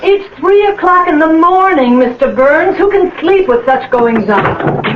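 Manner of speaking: high, shocked reproach; indignant scolding. Acted. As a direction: scold him for the noise at night. Landlady scolding, then repeats.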